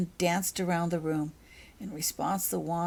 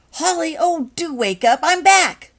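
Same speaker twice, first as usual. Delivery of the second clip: high, loud and thrilled; bursting with news, almost squealing; excited squeal; 11 semitones higher, 13 dB louder than usual. Acted. Becky bursting in on her sleepy friend, high excited squeal.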